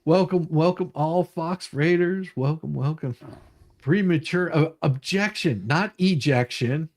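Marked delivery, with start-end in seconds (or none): 0.1-3.1 host greeting. Real, not acted. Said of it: "show greeting to audience".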